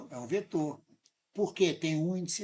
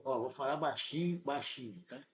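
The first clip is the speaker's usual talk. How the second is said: lowered confiding voice; leaning in to whisper; 3 semitones lower, 5 dB quieter than usual. Real, not acted. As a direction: drop the voice, say it softly. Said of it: "Eu vou falar baixinho".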